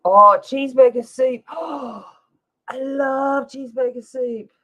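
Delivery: loud, high joyful discovery; light up at the mention of the soup; delighted. Real, not acted.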